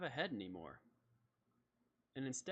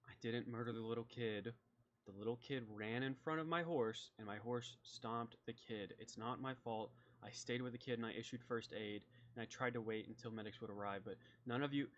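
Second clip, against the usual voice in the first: softer, lightly voiced inmate pleading innocence; condemned man protesting; 4 dB quieter than usual. Roger denying he murdered the kid, subdued protest.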